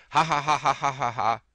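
loud hammed-up ha ha ha; reading a laughing comment. Reading a viewer's comment out with a big laugh.

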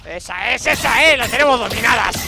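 cheering after a fight; triumphant cheer. Real, not acted. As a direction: crow over the beaten ants.

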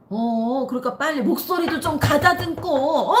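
loud, high scolding, rising to a yell. Retold or imitated. Boss scolds sleepy employee on phone, loud and high. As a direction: snap at her to wake up. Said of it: "나를 막 다그치는 거야".

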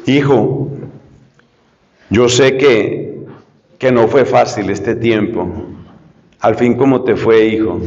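father gently asking his son how it went; soft fatherly voice. Shown as a demonstration. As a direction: ask it softly, like a caring dad. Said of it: "le pregunta con esa voz".

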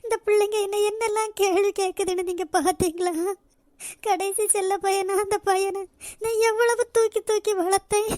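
tearful lament. Acted. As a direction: pour out grief to a lost husband. Widow laments to dead husband.

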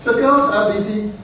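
put-on a light, understated Viennese accent reading a letter. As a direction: read Franz's letter in a mild Viennese accent. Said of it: "this is my attempt at a Viennese accent".

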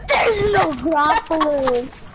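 drawn-out indignant shout; outraged yelling. Real, not acted. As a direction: yell it slowly, outraged. Gamer yelling at opponent.

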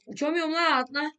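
high panicked cry; frantic, calling out in a scramble; being chased. Real, not acted. Chased, can't fly away.

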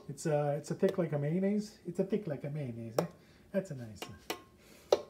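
lightly put-on Italian accent; a touch of mock Italian; poor Italian accent. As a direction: do a bad, playful Italian accent. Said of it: "My poor Italian accent".

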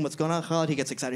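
usual speaking voice

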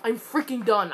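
very loud, emphatic declaration; shouted exasperation after a loss; fed-up fury. Real, not acted. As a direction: hammer out each word, totally fed up. Furious right after losing the match.

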